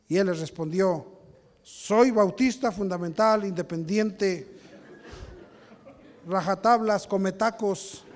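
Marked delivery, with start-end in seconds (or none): 1.6-8.0 mock proud Baptist. Mock Jonah boasting as Baptist.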